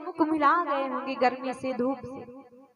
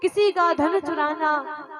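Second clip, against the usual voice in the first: raised, emphatic self-cursing vow; impassioned oath; 3 semitones higher, 3 dB louder than usual. Acted. Bharat swears innocence to mother Kaushalya, impassioned oath.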